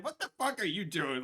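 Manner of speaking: loud, high and laughing; laughing yell. Retold or imitated. Retelling what she said to him, loud and laughing. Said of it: "I said".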